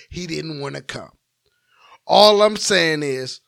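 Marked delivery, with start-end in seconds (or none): 2.1-3.4 smug purring playboy voice; slow, loud, lightly voiced playboy drawl; Playboy James. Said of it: "in my Playboy James voice".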